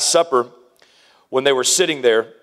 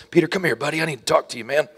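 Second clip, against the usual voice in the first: hushed, fast, overly gentle pastor; mock-gentle pep talk to Peter, hushed and fast; soft pastor voice; faster than usual. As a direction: coax him like a tiptoeing counselor. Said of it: "he doesn't pull him aside and say".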